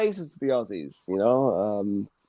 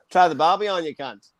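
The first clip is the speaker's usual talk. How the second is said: hammed-up Australian accent. Shown as a demonstration. Showing off his Australian accent to friends, mock Australian accent. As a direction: put on a stereotype Australian accent. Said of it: "the key to an Australian accent".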